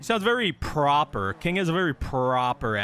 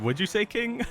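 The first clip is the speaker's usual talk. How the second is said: laughing retold quote; 9 semitones higher than usual. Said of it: "and he said".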